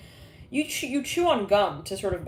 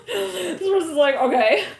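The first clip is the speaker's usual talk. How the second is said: high laughing words; 10 semitones higher, 7 dB louder, slower than usual. Real, not acted. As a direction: laugh through it. Laughing while speaking.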